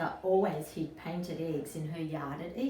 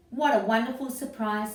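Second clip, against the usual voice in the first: louder, higher delighted exclaim; 5 semitones higher, 6 dB louder than usual. Acted. Harry delighted by the eggs in the nest. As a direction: burst with happy surprise. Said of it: "said Harry".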